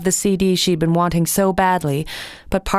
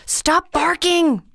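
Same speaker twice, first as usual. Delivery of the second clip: mild snap; 11 semitones higher, much slower than usual. A narrator's reading. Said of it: "she snapped".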